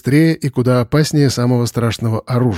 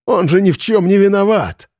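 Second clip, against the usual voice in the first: higher, pleading cry; desperate plea; 7 semitones higher than usual. A narrator's reading. Semyon pleading with Arkhip, desperate. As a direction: beg for the boy.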